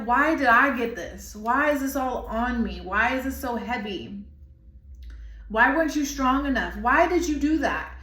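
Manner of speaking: angry, upset questioning. Acted. Channeling someone screaming at God, mildly acted angry protest. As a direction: voice someone upset and demanding answers. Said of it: "There's something very angry, very upset".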